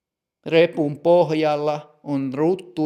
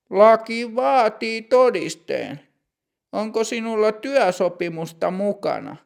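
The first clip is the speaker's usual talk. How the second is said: put-on higher, measured voice of a strict older clerk; stern bank clerk; 7 semitones higher than usual. Older bank clerk greeting customer Matti, stern and higher.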